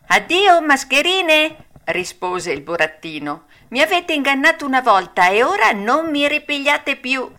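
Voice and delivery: the puppet taunting the swindlers; Pinocchio's voice. A narrator's reading. Pinocchio mocking the fox and cat, high and loud.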